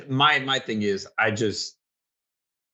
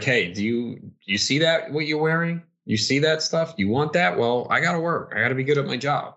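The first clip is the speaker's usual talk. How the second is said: pitched-up, indignant imitation of himself arguing back; mock hurt partner; 5 semitones higher than usual. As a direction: play it as a half-joking retort to his partner. Acted quote to his partner.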